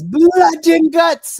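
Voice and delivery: slow, drawn-out British growl up high and loud; imitating a British wrestler's slow promo line; British accent. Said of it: "So in her British accent".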